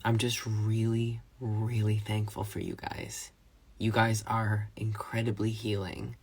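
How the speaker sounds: shaky, near tears; holding back tears. Real, not acted. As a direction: voice wavering as tears threaten. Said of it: "I'm trying not to cry".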